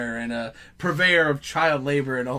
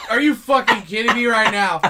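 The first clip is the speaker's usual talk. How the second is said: exasperated; 6 semitones higher, 7 dB louder than usual. Retold or imitated. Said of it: "and I'm like".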